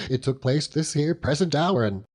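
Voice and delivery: a hint of a rough old fisherman, chuckling as he talks; lightly voiced seaman, proud and laughing; Mr. Peggotty. Proud uncle telling gentlemen about Emily, lightly voiced fisherman.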